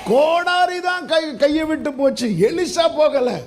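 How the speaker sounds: high, slow, emphatic repeat; preaching emphasis. Real, not acted. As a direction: drive the point home slowly. Repeats the climax line.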